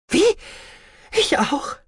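high, bewildered question; confused. A narrator's reading. Meg asks the mutineer if she is locked up too, confused. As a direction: ask in disbelief. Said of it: "fragte Meg verwirrt".

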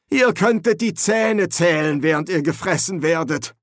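sighing. A narrator's reading. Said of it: "seufzte Ponder".

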